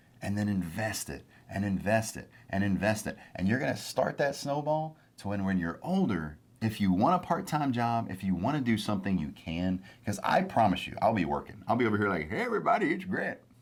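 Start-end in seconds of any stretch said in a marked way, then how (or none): 12.3-13.3 put-on elderly voice, very high pitched. Speaker pictures himself still working when older, doing an old person voice. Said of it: "That's an old person voice".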